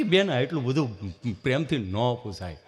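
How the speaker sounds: a hint of a scared patient; nervous friend. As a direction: sound uneasy and shy. Nervous friend answers nurse.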